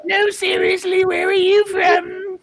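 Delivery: mocking echo. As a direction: whine it back like a mock sob. Mimicking the repeat.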